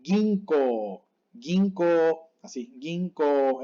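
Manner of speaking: Ginko with the last O held; pure long O ending ginko; long final O. Shown as a demonstration. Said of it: "con las reglas que vimos antes".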